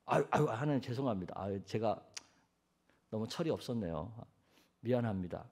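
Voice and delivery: soft, low, contrite murmur; acted sheepish apology to God; meek apology. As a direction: back down humbly in a small voice. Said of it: "우리 같으면".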